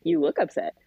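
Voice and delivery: level retort with a small rise at the end; mother's deadpan reply. Retold or imitated. Mom turning son's words back on him, unmoved. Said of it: "I'm like".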